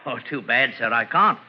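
put-on English police accent, polite and proper; a crook faking an English accent to pass as a police sergeant; fake English accent. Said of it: "What became of your English accent?".

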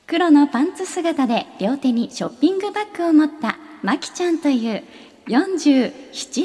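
mall announcement, crisp and formal; over a PA system. Acted. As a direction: read it like an in-store PA call. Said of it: "館内アナウンス風に。".

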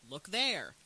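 loud, imitated command; giving orders. Villain directing his stupid minions, giving orders. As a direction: order slow-witted minions about, mock-impatient. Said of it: "he has to keep telling them".

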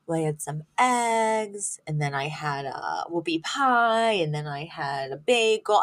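slow, drawn-out imitation of a patient listing foods; mock-earnest slow recital. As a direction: stretch out each item on the list. Acting out patient listing her food.

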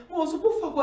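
high, soft retold tearful plea; súplica chorosa imitada. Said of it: "Aí comecei a chorar". (súplica chorosa, baixinha e aguda)

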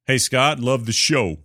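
put-on a quick, light Brooklyn accent on the greeting. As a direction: read the email opener in a playful Brooklyn accent. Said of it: "That's my Brooklyn accent".

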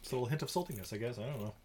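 talking with a mouthful of chips; chewing while talking. Real, not acted. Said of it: "chewing noises".

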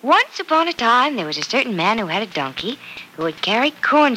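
put-on gentle read-aloud for a little girl; reading a story to a child; storybook reading. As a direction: tell it like a bedtime fairy tale. Reading fairy tale to child.

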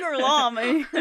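put-on laughing hick-accented Italian name; mock an American hick faking Italian; hammed-up hick mispronunciation of Italian. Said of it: "fucking hick accent".

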